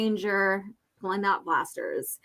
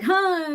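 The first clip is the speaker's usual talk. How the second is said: imitated grunt; 9 semitones higher than usual. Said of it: "he's like".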